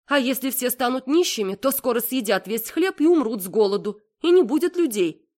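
mother sure she's found the winning argument; triumphant mother. A narrator's reading.

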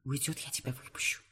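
hushed whisper to her lover. Acted. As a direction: keep it barely audible, secretive. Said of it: "шеплю я".

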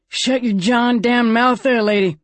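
high, rough snarl of a gambler; a pained man telling a woman to shut up. A narrator's reading. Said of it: "looking pained".

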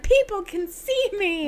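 mock speaking for someone. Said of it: "You're just like".

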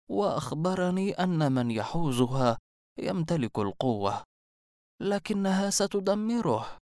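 lightly voiced old seer, ominous; mysterious old woman. A narrator's reading. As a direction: warn him like a prophetess. (عجوز غامضة منذرة)

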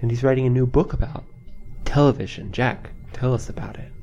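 measured public-radio interviewer introduction; lightly put-on NPR interview voice; pretend NPR host. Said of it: "can we pretend this is N P R".

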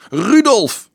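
very high, loud yell. A narrator's reading. Other children answering the officer, yelling. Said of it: "gilden anderen".

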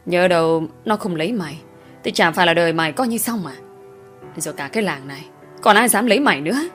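rising rage. Acted. Father raging about the daughter's lover, building anger. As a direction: let the fury build to the end.

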